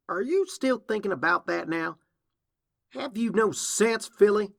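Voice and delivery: loud, high big-sister telling-off; exasperated scolding. Acted. Applejack scolds her sister over Manhattan, exasperated. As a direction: build to a loud, incredulous scolding.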